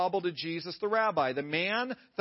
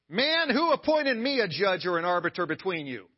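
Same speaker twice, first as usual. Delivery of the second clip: firm, curt and a little louder; curt rebuke; 4 dB louder than usual. Pretend. Preacher voicing Jesus curtly rebuking the man, firm. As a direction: cut the man off, short and firm. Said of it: "I'm gonna try to get the tone right here".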